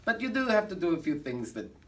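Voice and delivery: put-on German accent of a comic showman; fake German accent. Bragging to the audience in a fake German accent. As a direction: camp cabaret star with a fake German accent.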